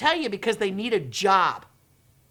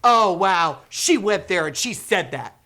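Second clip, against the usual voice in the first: much louder, cheering exclamation; loud excited reaction; 5 dB louder, slower than usual. Retold or imitated. Educators cheering the video, loudly excited. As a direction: call it out with delight.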